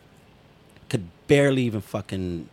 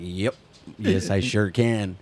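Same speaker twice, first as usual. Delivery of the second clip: curt sarcastic yes; 3 semitones lower, slower than usual. Retold or imitated. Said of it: "She's like".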